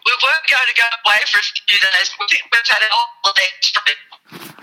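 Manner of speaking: phone line breaking up; garbled, cutting-out phone audio. Real, not acted. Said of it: "You're breaking up a little bit".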